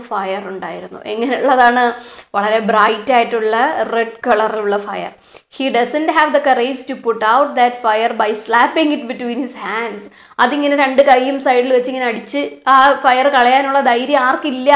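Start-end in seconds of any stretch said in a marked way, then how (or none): 5.6-10.0 slow, deliberate reading of the story. A narrator's reading. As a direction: read each phrase slowly for the class. Teacher reads story aloud. (പതുക്കെയുള്ള കഥ വായന)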